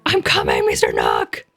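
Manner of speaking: deep aggressive growl at Mister Nook. Acted. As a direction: growl it like a menacing beast. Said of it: "that was really, really aggressive".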